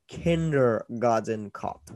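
put-on slow, failed Austrian accent; Schwarzenegger accent. Podcast host trying Schwarzenegger for the movie title, slow Austrian accent. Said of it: "I was trying to do a Schwarzenegger accent".

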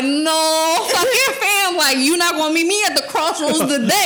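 laughing. Retold or imitated. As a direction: laugh through the refusal. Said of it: "I was like".

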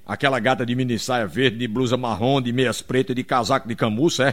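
grave, lista detalhada em tom contido; namorado fingindo desinteresse. Acted. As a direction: enumere em voz mais baixa, como quem disfarça. Namorado descreve a loira em detalhe. (namorado disfarçando, voz grave)

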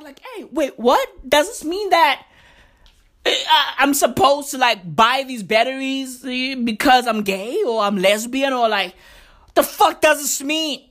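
puzzled, halting questioning; mock confusion. Gay shopper puzzled by rainbow batteries, mock bewilderment. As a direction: act baffled, feeling for the words. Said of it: "gay people be out there mad confused".

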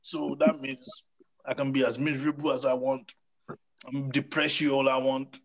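mock the gloomy know-all; a sulky mopey superior tone; smug miserable PhD. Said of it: "But we just wanna be there".

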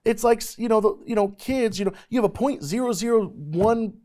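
high, loud, fervent preaching; preaching at full force. Acted. Preacher telling youth about his calling, preaching fervently. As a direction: preach it out to the crowd with full passion.

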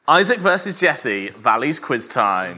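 slow, grand quiz-show title; game show announcer. Acted.

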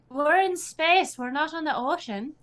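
incredulous captain protesting; exasperated protest. Acted. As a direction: spell out the obvious in disbelief. Exasperated retort to orders.

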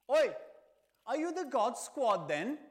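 acted menacing challenge, loud and high; threatening shout. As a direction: call them out like a street troublemaker. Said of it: "someone like this, threatening".

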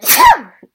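loud sudden sneeze; real sneeze, full force. Real, not acted. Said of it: "I am now going to sneeze".

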